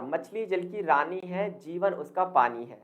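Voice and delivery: reciting a rhyme. Shown as a demonstration. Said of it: "इस तरीके से आपने सुना होगा".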